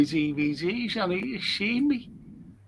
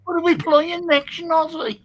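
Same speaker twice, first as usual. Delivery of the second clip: playful tease; 9 semitones higher, 3 dB louder than usual. Pretend. Teasing Noddy.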